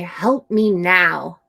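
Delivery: put-on demanding child; bossy demand. Shown as a demonstration. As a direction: order a friend around. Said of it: "A bossy friend will say".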